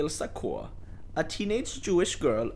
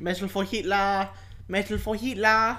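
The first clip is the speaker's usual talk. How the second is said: loud, rousing mock Nazi chant; mock rally shout; 3 semitones higher, 6 dB louder than usual. Podcast host mock-rallying for the war effort, loud chant. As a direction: bark it like a rally slogan.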